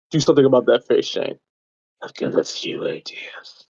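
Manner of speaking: menacing threat that drops to a voiceless hush; villain's whispered threat; sinister villain. Acted. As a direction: tease him, then breathe the last line. Joker-like threat to Shane.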